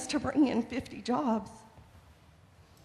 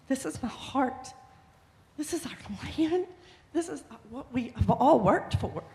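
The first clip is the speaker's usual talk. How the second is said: emotional; 3 semitones higher than usual. Real, not acted. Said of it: "I'm sorry if I'm getting emotional".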